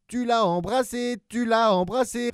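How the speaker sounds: high, loud laughing chant; laughing gleefully. Acted. Abominable teasing his baby brother, laughing. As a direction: crow it between laughs. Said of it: "répétait-il en riant".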